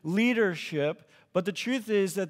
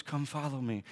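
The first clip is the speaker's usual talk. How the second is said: soft, hushed movie Jesus, lower and softer; mock whisper; 6 semitones lower, 8 dB quieter than usual. Mocking the movie Jesus calling disciples, hushed mock whisper. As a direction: gently breathe it like a dreamy film scene. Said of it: "and he whispers".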